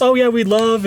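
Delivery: high mock voice; chirpy fake cheer; talking for his wife. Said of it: "and he goes".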